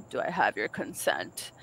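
retold solemn request from a date; imitated earnest man. Quotes the man asking solemnly.

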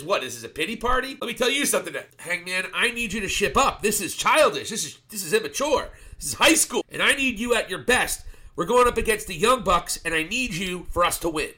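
lightly acted tough-love lecture; half-acted Kenny telling Hangman to grow up; mock scolding.

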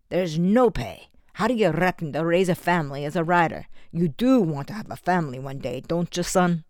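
a lightly voiced stern Scottish father lecturing; stern foster father. Foster father pressing Eddie to take a trade, lightly voiced stern lecture. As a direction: lay down the law to your foster son, firmly.

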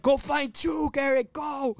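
high, urgent mock order; movie-style command. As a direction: send him off like a film hero. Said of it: "on some fucking movie shit".

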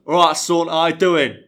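light Yorkshire dad impression; Yorkshire accent. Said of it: "how fucking Yorkshire my dad He really goes".

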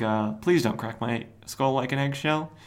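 mildly timid request; understated mock pleading; meek plea. Cobra answering a skull-crushing threat, mildly meek plea.

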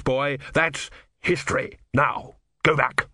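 a hint of a weary warlord; stern old general. Vortius addresses young priest.

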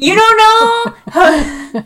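squealing high through laughter; high laughing you don't know; laughing disbelief. Real, not acted.

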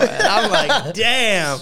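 high, loud words through laughter; cracking up while saying it; laughing. Retold or imitated. Laughing as he remembers coming out of the bathroom high.

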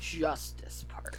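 slow, drawn-out whisper; hushed aside. Real, not acted. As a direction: whisper it, stretching the words. Hushed teasing echo of justice part.

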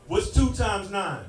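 slow, drilling times tables; slow teaching voice. Shown as a demonstration. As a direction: drill it slowly like a dad teaching. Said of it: "So I'm like this".

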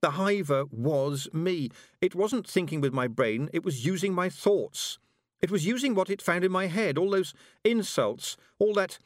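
mild wail, pitch climbing as it goes. A narrator's reading. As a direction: confess it in rising distress. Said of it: "wailed Tiffany".

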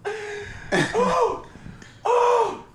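high startled "oh" cries; shocked yelps. Real, not acted. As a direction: yelp in real shock. Shocked yelps after the prank.

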